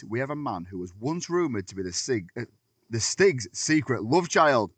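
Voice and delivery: talking through loose false teeth; words slurred around dentures. Real, not acted. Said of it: "I put my teeth in today".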